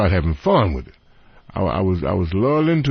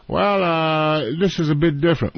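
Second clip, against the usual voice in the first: higher-pitched imitated English accent; British agent; 5 semitones higher than usual. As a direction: hedge politely in a put-on English accent. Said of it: "he's a British guy".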